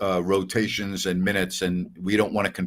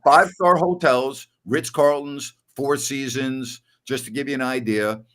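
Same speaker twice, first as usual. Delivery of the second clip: mock outrage; 4 semitones higher than usual. Mock indignant lecture continues.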